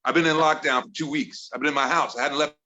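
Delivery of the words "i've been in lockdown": mock angry. Real, not acted. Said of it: "a little aggressive".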